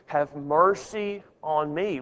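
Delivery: slow, deliberate weight on "Have mercy on me"; "Have mercy on me" spoken slowly, each part stretched; emphatic. Shown as a demonstration. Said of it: "put emphasis here on, on this, this part".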